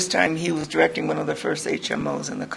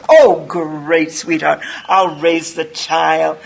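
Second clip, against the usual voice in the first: mock saintly, slow and sugary; Mother Superior; 6 dB louder, much slower than usual. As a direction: play the all-forgiving mother. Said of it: "I'm gonna be Mother Superior".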